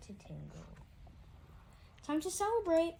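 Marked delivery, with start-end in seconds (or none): 2.0-2.9 declaring. A narrator's reading. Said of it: "Mom declared".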